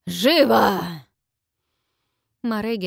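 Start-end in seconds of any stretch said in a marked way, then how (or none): 0.1-0.8 loud, slow booming dragon command; deafening dragon roar. A narrator's reading. Dragon orders the captives to kneel, booming roar.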